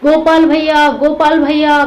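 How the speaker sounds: high, loud frightened calling out; shouting. Acted. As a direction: yell for him across the forest. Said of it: "जोर जोर से चिल्लाने लगे".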